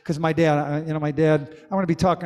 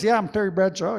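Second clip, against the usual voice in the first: lightly voiced football star brag, a bit higher; hammed-up Terry Bradshaw; 4 semitones higher than usual. Shown as a demonstration. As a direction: ham up a bar-room Terry Bradshaw boast. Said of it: "Start talking like this".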